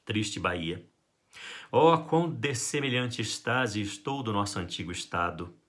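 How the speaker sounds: "Triste Bahia" read as a flowing line of verse; poem reading. Shown as a demonstration. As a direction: recite the sonnet smoothly.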